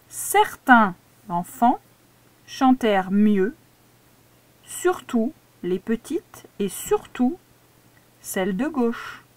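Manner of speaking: slow, careful dictation reread; slow proofreading read-back to the pupil. Shown as a demonstration. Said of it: "Je relis".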